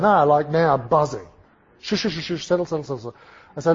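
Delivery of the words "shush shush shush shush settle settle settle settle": soft, repeated shushing; calming the crowd. Retold or imitated. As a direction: hush a buzzing room gently. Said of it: "I have to calm these guys down".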